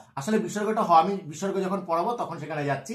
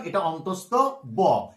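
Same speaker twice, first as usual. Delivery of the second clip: slow clear naming; 3 semitones lower, slower than usual. Shown as a demonstration. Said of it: "এটা যেমন অন্তস্থ জ বলেছিলাম".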